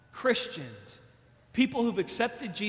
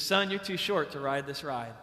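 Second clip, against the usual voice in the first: stern ride attendant; 6 semitones lower, 4 dB quieter than usual. Retold or imitated. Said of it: "he says".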